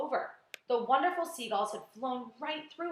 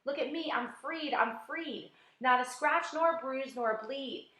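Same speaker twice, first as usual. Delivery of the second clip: higher, lilting triumphant verse; gleeful rhyme; 3 semitones higher than usual. Acted. Centipede crowing to the others in rhyme, gleeful. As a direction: show off your freedom.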